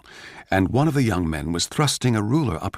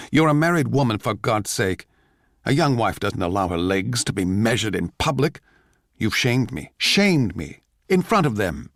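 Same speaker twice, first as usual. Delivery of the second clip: scolding; 3 semitones higher than usual. Acted. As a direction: lay into her for shaming you. Husband scolds his wife.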